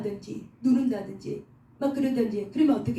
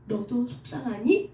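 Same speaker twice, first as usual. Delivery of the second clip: gentle God's voice; slower than usual. Retold or imitated. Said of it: "그러는 거야".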